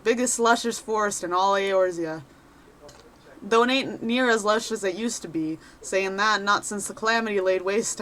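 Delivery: a lightly voiced cheerful rogue adventurer; chatty wanderer sizing up a newcomer; folksy adventurer. Reads NPC adventurer lines.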